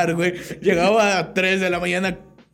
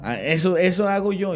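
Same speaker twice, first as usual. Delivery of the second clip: normal talking voice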